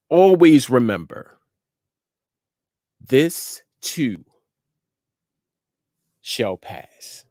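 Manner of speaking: measured encouragement with long, weighty pauses; deliberate inspirational address, letting each phrase land; motivational preaching. Real, not acted. Closes the inspirational message.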